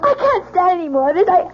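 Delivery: distressed pleading. Acted. Wife pleading with the lieutenant to stop, panicked. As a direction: beg him to stop, voice climbing. Wife refuses to hear accusation.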